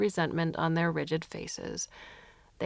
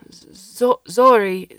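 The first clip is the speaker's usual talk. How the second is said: loud stammering yell; shouting; 3 semitones higher, 14 dB louder, much slower than usual. Acted. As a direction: call out in fury. Alberto calls after alien furiously.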